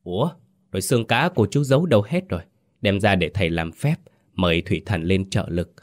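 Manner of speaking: fake-curious question, quick; mock wondering, a touch rushed; feigned puzzlement. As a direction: play dumb to fish for the truth. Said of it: "giả bộ thắc mắc cất tiếng hỏi".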